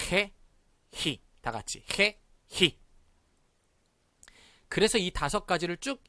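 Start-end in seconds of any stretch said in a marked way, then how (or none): 0.1-1.2 해, 히 with a raspy h in place of g; harsh Spanish g. Shown as a demonstration. Teacher modelling g before e and i, harsh 해, 히. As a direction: say 해, 히 with throat friction, each separate. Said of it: "갑자기 더러운 발음이 나옵니다".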